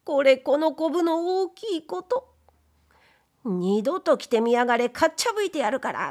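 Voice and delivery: lightly voiced furious wife; angry wife. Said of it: "いきなりポカッと".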